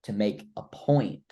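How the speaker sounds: slow, deliberate pace with long pauses. Shown as a demonstration. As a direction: let each pause land before the next phrase. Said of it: "The pace is what I changed".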